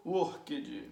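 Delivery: "workage," in two syllables, work-ed with a voiced ending; wrong extra syllable. Shown as a demonstration. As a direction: add a mistaken second syllable to "workage,". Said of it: "there is no workage".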